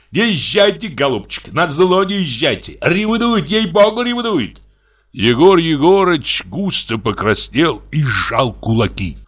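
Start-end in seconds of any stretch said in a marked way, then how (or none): 0.1-4.6 high, insistent urging; squeaky needling. Acted. Brother urging the doctor to spite husband, squeaky needling.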